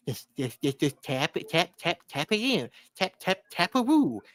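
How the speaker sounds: tapping chant building to a loud high burst; mock frustration. Gilmore trying to tap it in, mock frustrated. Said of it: "when he's getting frustrated".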